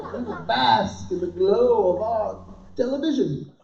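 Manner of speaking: lightly voiced archaic gallant; mock-chivalrous knight. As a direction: declare it like a storybook knight. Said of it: "My lady!".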